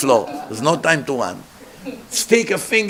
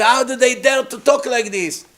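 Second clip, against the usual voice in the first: outraged; 8 semitones higher than usual. Acted. Yoshua running to Moshe, shouting in zealous outrage. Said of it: "ran quickly to Moshe and said".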